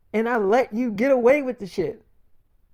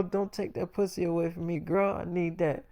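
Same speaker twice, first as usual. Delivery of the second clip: much softer, a hushed playful plea; soft pleading; 2 semitones lower, 8 dB quieter than usual. Retold or imitated. Boyfriend begging girlfriend not to leave, hushed. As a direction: murmur it close, coaxing. Sweet-talking China, pleading.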